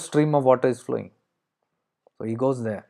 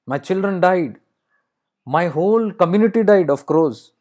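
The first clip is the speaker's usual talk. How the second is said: higher-pitched, acted lament; anguished lament; 5 semitones higher than usual. Crow telling Alexander of all it has lost, acted lament. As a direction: pour out losses in a raised voice.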